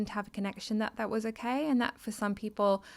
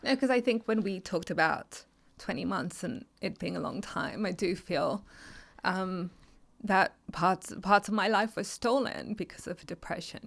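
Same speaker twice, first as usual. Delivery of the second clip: teary. Real, not acted. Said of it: "Sorry, I'm getting a bit, bit teary".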